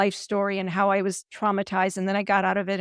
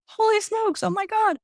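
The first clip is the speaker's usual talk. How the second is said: high, squealing mock astonishment; astonished exclamation; 13 semitones higher, slower than usual. Recalling her reply to the note, high astonished squeal. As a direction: squeal it out like you can't believe she answered. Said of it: "And I went".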